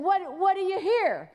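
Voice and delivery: excited asking what he hears; eager question. Retold or imitated. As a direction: lean in, keen to know.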